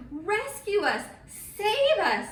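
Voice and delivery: high, loud desperate shriek; scared fishermen shrieking to Jesus for rescue; shrieking plea. Acted. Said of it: "they shrieked".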